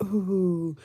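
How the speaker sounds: exasperated "ooh"; drawn-out groan of a frazzled mom; imitated overwhelmed mother. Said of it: "The mother was just like".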